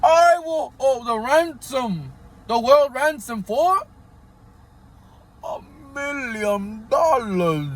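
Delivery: slow, drawn-out villain voice; hammed-up evil mastermind; Doctor Evil voice. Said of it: "Doctor, Doctor Evil".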